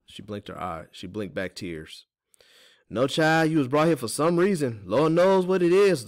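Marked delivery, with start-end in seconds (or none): 2.9-6.0 high, loud folksy consolation; sympathetic. A narrator's reading. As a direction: console the child with lifted, emphatic voice. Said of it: "Teeny's voice was so sympathetic".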